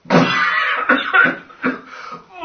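spluttering cough, half laugh; coughing fit. Real, not acted. Player reacting to the troglodyte headcount, spluttering cough. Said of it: "I think more like coughing".

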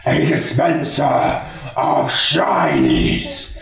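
angry dark lord. Acted. Fenrir rejects the shiny request.

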